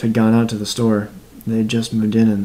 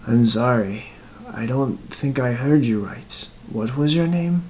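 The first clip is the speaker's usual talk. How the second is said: a touch higher, ending on a rising question; lightly voiced old killer, puzzled; 3 semitones higher than usual. Killer asks the dead man his name, mildly puzzled.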